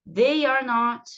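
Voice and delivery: THEY ARE NOT slow, word by word; model pronunciation. Shown as a demonstration. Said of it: "vão repetindo aí comigo". (pronúncia modelo, lenta)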